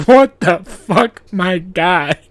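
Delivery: slow, loud what-the-fuck drawl; exasperated angel. Retold or imitated. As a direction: stretch it out in disbelief. Guardian angel looking down at me.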